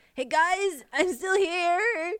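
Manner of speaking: very high, cracking voice. Retelling a scene where Mike and Lucas leave, imitating Will's cracking voice. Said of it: "his voice is like cracking".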